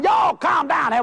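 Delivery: mock preacher's command; calming the crowd. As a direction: settle the cabin down. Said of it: "I said".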